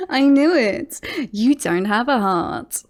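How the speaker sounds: teasing gloat after a laugh; gleeful gotcha. Acted. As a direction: pounce on the rival's slip. Gloats at rival's failed line.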